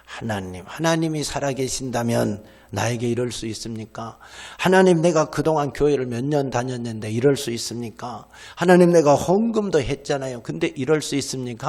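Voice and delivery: acting out a disgruntled churchgoer's prayer; mock complaining prayer. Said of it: "하나님 원망합니다".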